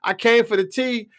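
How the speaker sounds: high mock outrage from a white fan; angry white fan. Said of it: "A lot of white Americans was pissed off, like".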